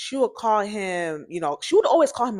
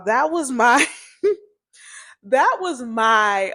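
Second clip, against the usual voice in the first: laughing; 2 semitones higher, 4 dB louder, slower than usual. Real, not acted. Laughing at own story.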